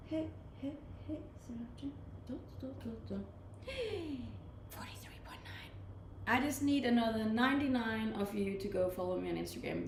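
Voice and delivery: ordinary talk, nothing marked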